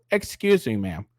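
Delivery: sweetly polite stranger; a lilting, overly courteous "Excuse me, ma'am". Retold or imitated. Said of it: "they're not gonna start off with".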